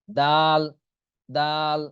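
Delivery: দাল with a long, held aa; demonstrated pronunciation. Shown as a demonstration. Teacher modelling the letter for learners, long drawn-out দাল. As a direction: stretch the vowel in দাল before the l. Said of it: "এরকম উচ্চারণ হবে".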